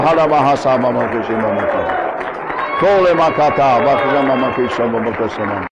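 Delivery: loud, fast ecstatic tongues; speaking in tongues. Acted. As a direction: pour it out in fervent tongues. Speaking in tongues, full force.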